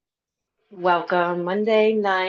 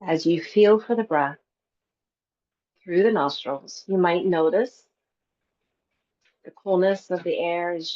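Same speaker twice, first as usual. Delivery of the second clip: calm meditation teacher with long pauses; guided breath work; 2 semitones lower than usual. Real, not acted. Yoga teacher settling a class into breath work, calm guided relaxation. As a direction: guide them gently into stillness, unhurried.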